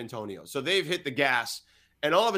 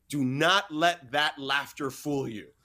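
slow, each word weighted; retold stern caution, deliberately paced; emphatic warning; slower than usual. Colleague warning the reporter after the meeting, emphatic warning.

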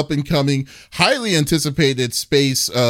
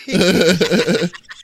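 bright laugh; 5 semitones higher than usual. Real, not acted. Laughing at cohost's yawning.

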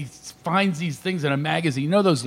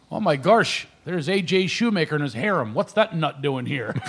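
put-on Shamokin accent. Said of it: "He's there with that Shamokin accent".

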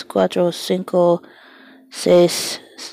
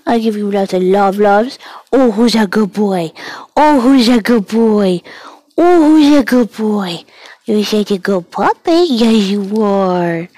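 sing-song praise for a pet; squeaky praising a dog. Real, not acted.

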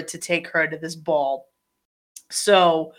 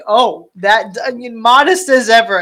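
louder, higher sarcastic jab; mock the prince's modesty; dry ironic remark, pushed up; 4 semitones higher, 5 dB louder than usual. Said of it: "And I'm like".

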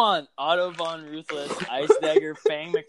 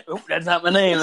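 laughing; 6 dB louder than usual. Real, not acted. Parody quote while laughing.

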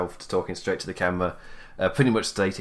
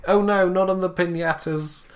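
mock panicked wail; 9 semitones higher than usual. Mock nickname quote.

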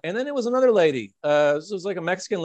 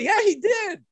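laughing insistence; slower than usual. Retold or imitated. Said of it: "I was like".

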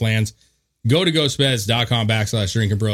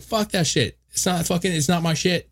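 mock rant; 6 semitones higher than usual. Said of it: "he's like".

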